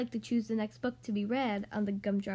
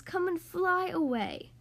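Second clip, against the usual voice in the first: higher, slow inviting call; 5 semitones higher, slower than usual. Acted. Swans inviting the new swan to fly, slow high call. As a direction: call him up into the sky gently. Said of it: "called the swans".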